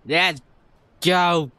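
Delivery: put-on drunk voice. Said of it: "That's my drunk voice".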